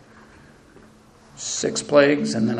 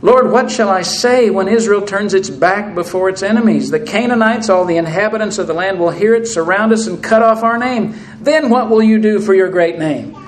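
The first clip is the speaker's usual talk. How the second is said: complaining Joshua; 4 semitones higher, 4 dB louder than usual. Acted. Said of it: "not the way God wanted to have Joshua talk".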